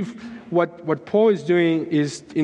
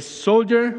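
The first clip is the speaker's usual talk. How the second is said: higher, commanding call; intense; 6 semitones higher than usual. Retold or imitated. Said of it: "he said with intensity".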